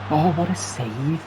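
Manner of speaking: high, amazed cry of "what a save"; excited exclamation. Real, not acted. Keeper makes big save.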